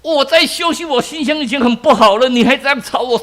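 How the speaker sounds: high-pitched angry outburst at the nagging preacher; angry woman. Acted. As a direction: snap at him for disturbing her rest. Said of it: "那妇人很生气呀".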